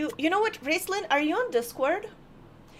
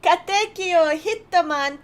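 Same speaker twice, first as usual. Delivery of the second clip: dramatic title call; 3 semitones higher, 7 dB louder, slower than usual. Acted. Announcing the show title.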